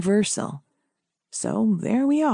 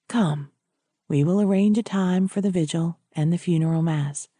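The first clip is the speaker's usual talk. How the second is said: lower-pitched priest voice; 3 semitones lower than usual. Acted. Priest leading widow to arrange funeral, low and measured.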